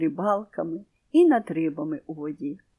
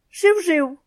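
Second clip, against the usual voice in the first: high squawked cheep-cheep; shrill echo of the sparrows; parrot copying the chirp; 9 semitones higher, 4 dB louder than usual. A narrator's reading. Parrot calls the chirp back to the sparrows. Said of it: "загукав він до них".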